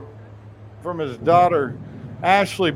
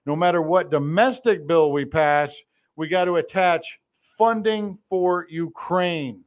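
slow mocking quote. Mock quote of Schumer, slowed.

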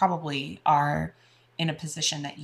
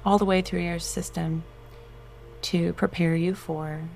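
guided meditation. Acted. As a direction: soothe them into relaxation.

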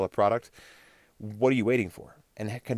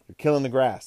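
loud, higher coach yell; 4 semitones higher, 7 dB louder than usual. Retold or imitated. High school football coach yelling at a player who stands around. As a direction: bark it like a Texas football coach. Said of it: "one coach would always yell at us".

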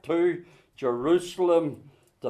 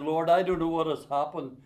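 retold prayer. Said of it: "and I said".

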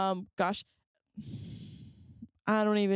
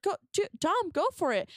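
higher-pitched imagined pep talk; lightly acted urging, pitched up; encouraging; 7 semitones higher than usual. Speaker imagines urging Dom on, encouraging.

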